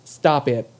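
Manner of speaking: imitating a nervous squeak on "stop it". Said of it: "did I sound higher pitched".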